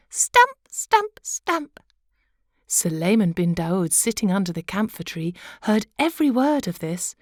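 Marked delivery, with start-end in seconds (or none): 0.1-1.8 high mocking whisper; wife goading her husband in a whisper; taunting whisper. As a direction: whisper the dare to goad him.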